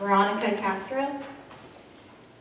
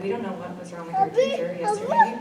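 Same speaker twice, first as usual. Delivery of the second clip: higher, lightly voiced puzzled kids; imitating the kids; 11 semitones higher, faster than usual. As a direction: mimic the children, a touch higher. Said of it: "your kids came home and said".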